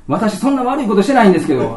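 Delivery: patient jokingly protesting to the doctor; laughing protest. Retold or imitated.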